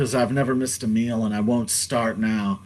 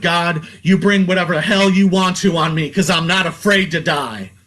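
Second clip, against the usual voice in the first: defiant raised voice, higher and louder; a quoted yell to the heavens, raised but not full force; yelled at the sky; 4 semitones higher, 3 dB louder than usual. Retold or imitated. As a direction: cry out to God in defiance. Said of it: "I yelled at the sky".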